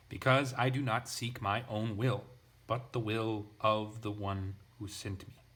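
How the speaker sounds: each statement pressed like an exclamation; emphatic reading. Shown as a demonstration. Teacher reading his translation of Jesus, emphatic. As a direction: read it with exclamation-mark force. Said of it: "just put exclamation marks at the end".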